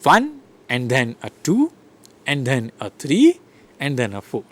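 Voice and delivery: numbers one, two, three stretched upward on the beat; rising beat, settling down on four; rhythmic counting. Shown as a demonstration. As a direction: count with quick "and then a" between stressed numbers. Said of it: "the numbers are stressed and the unstressed".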